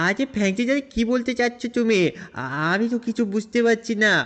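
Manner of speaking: put-on puzzled kid voice. Shinchan asking Franklin what he means, high puzzled kid voice. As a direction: ask it like a baffled little kid.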